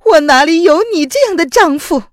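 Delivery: high, loud furious woman's voice; bitter hatred. Acted. Wife scorning her treacherous husband, high and furious. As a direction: spit the words at him. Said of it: "宋飞宇恨恨地说".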